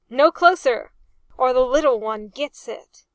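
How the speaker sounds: loud, urgent threat; cried threat. A narrator's reading. Arthur threatening pirates over his hostage, loud cry. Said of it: "Arthur cried".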